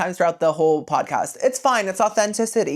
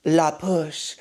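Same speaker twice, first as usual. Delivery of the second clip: repeating La Push; 3 semitones lower, slower than usual. Retold or imitated. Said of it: "he says the beach's name probably, like, ten times".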